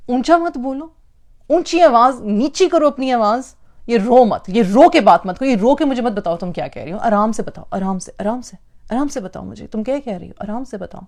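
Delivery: mock a husband hushing his crying wife; imitating a husband. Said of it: "मर्द कहते क्या हैं".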